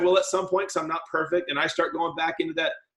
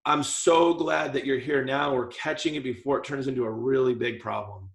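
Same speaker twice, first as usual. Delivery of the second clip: reassuring dentist; 5 semitones lower, 3 dB quieter than usual. Shown as a demonstration. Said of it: "Here's the right way. Tone of voice".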